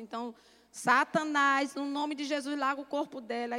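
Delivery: half-preached rebuke at the devil; loud rebuke. Retold or imitated. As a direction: command the devil to let go. Rebuking Satan in prayer.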